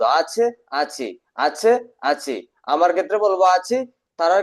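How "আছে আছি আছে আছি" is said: slow dictation. Shown as a demonstration. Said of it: "এই দুইটা শব্দ".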